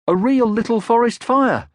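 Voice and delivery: put-on high, loud child calling; excited young troll voice; Moomin Troll. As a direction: call out like an eager young troll.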